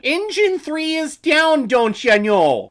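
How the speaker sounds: put-on high, slow Midwest Canadian accent; hammy Midwest Canadian accent, drawn out. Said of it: "in your Midwest Canadian accent".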